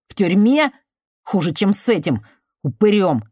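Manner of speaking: put-on resentful cornered boy telling her to leave; bitter youth. Artemiy's desperate defiance.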